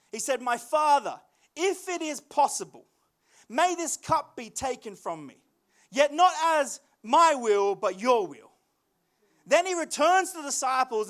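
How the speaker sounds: measured scripture reading with weighty pauses. A narrator's reading. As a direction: read it out solemnly, phrase by phrase.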